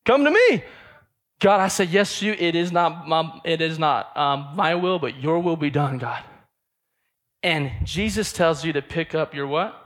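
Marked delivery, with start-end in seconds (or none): 0.0-0.6 loud, high call out; God calling out. Retold or imitated. God calls the stressed believer out, loud and high. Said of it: "He's like". 1.4-6.2 earnest surrender. Retold or imitated. Believer surrendering to God.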